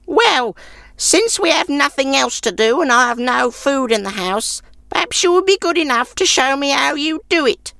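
high crone voice, grudgingly curious; grudging old woman. A narrator's reading. Old woman grudgingly asking the traveller to show her, high crone voice. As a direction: give in reluctantly as an old crone.

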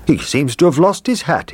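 cook's voice. Acted. The cook speaks.

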